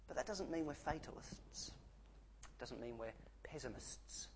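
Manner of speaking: sudden hushed whisper for emphasis; urgent whispered point. Real, not acted. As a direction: drop right down to a breath. Preacher drops to a whisper.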